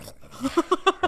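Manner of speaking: high spluttered noise after breathing in; comic sputtering sound; imitated breathing mishap. Shown as a demonstration. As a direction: mimic losing control on a breath. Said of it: "I breathe in, I just go".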